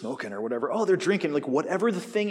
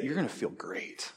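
tempting voice; 6 dB quieter than usual. Acted. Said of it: "It's gonna say".

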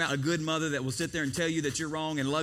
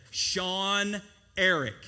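ominous full name; 4 dB louder, much slower than usual. Retold or imitated. Mother calling full name.

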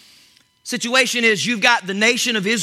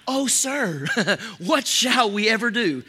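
mock proper servant. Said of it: "I don't know if they talked proper English".

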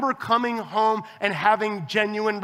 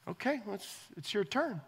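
expectant nudge; 13 dB quieter than usual. Retold or imitated. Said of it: "be like".

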